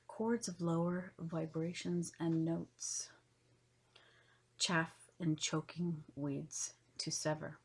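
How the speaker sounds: measured poem recital in spaced phrases; poetry reading. Acted. Host reading esoteric poetry to listeners, measured poetry reading. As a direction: read each line of verse with pauses between. Reads her poem aloud.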